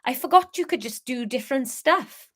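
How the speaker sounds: lightly attempted Welsh lilt; Welsh accent. Harry marvelling at Leah, tentative Welsh accent. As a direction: have another careful go at Welsh. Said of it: "how to do Welsh".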